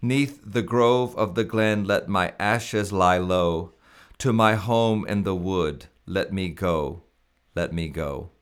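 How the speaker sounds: put-on slow, measured recital of old hymn lyrics; slow hymn reading. Shown as a demonstration. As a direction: read each line like a solemn poem. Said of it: "I apologize for the slow reading".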